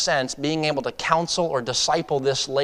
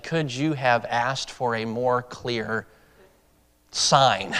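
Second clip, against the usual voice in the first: slow and softer, a patient question; gentle divine voice; 3 semitones lower, 4 dB quieter, much slower than usual. Retold or imitated. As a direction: let each word land slowly and gently. Spirit of God speaks.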